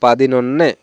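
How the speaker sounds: পাদিনন্যে with both n sounds clear; পাদিনন্যে with no n dropped; correct pronunciation. Shown as a demonstration. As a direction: model পাদিনন্যে carefully, din in the middle. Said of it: "উচ্চারণটা আমরা সঠিক যখন করতে যাব".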